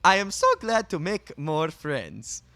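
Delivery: high, chirpy, overly formal stranger; cheerful formal townsperson voice; overly polite NPC. Acted.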